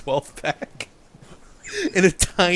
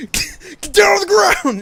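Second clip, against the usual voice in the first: high, loud mock police order; police shout; 10 dB louder than usual. Police storming the bus, yelling at Captain Falcon. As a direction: bark it like a raiding cop. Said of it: "The police come in and it's like".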